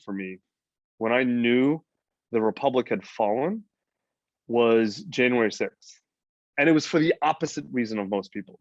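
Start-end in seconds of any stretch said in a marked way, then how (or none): none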